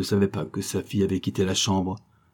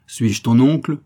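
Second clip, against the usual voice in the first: higher, louder indignant question; exclaimed question; 4 semitones higher, 7 dB louder than usual. A narrator's reading. Prince protests to his niece, exclaimed question. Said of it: "s'écria le prince".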